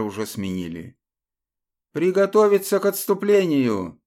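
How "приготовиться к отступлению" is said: loud, urgent order; shouted command. Acted. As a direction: call the retreat to the squad. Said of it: "скомандовал Алекс".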